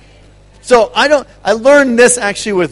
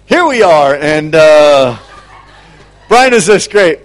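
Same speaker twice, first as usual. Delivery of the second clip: excited; 6 dB louder than usual. Retold or imitated. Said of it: "we're like".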